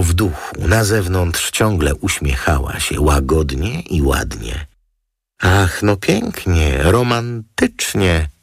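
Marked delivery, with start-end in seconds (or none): 5.4-8.3 slow, higher, swooning over the name; mock-gushing exclamation. Model gushing over the lawyer's name, slow and high. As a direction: drag out the gushing praise. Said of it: "zawołał anioł".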